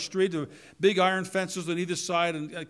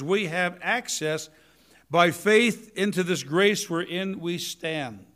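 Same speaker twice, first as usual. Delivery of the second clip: measured, deliberate reading of the verse; preacher reading the verse slowly to the congregation; slow scripture reading; slower than usual. Shown as a demonstration. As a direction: read "we have access" slowly, weighing each word. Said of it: "Talking about prayer here".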